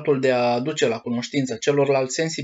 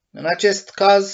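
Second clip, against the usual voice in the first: proud cry; 6 semitones higher, 4 dB louder than usual. A narrator's reading. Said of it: "strigă cu mândrie Pinocchio".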